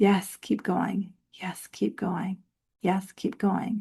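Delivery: soft, gentle, loving voice, repeating kindly. Workshop teacher showing how intuition speaks: gentle, soft, loving voice. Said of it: "a gentle, loving, soft, repetitive voice that says".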